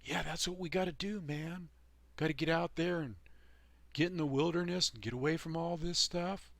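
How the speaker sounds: mock hyped-up hippie pledge; mocking eager talkers. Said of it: "they talk a good talk".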